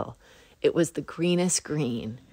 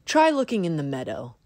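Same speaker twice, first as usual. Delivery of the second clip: squeaky high critter voice, louder; squirrel voice; 8 semitones higher, 3 dB louder than usual. A narrator's reading. Squirrel shows off its tail to Bunny, high squeaky voice. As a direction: pipe it up like a proud little squirrel. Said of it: "said Squirrel".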